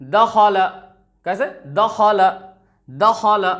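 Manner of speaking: दखल crisp and short; quick three-beat दखल; short vowels, read quickly. Shown as a demonstration. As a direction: recite दखल briskly, no vowel held. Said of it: "सही तरीका क्या है?".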